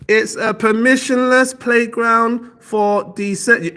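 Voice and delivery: loud, high, slow classroom read-aloud; schoolchild reading aloud. Acted. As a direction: read it out like a pupil, word by careful word. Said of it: "when you're in school, you're just like".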